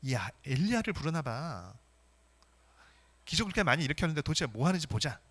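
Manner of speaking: imitating scornful onlookers; mocking jeer. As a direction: jeer like a bystander in the crowd. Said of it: "예수님을 조롱을 합니다".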